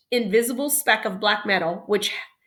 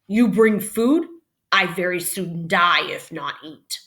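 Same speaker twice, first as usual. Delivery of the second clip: broken-English Indian; 4 dB louder than usual. Acted. Little Bear in broken English.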